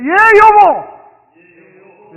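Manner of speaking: very slow, drawn-out, loud "예, 여보!"; long eager answer. Shown as a demonstration. Pastor demonstrating again for online viewers, loud and drawn out. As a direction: stretch the answer out with joy. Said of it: "다시 시작".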